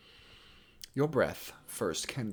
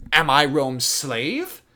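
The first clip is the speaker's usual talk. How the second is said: loud, high, declaimed royal outrage; furious; 10 semitones higher, 6 dB louder than usual. Acted. French prince raging at being bossed around, furious. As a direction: hurl each rhetorical question, building to a shout. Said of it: "he's really furious".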